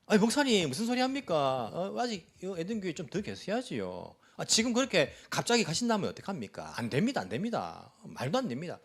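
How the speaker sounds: mock indignant protest. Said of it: "화를 내듯이 이렇게 이제 반응하시는".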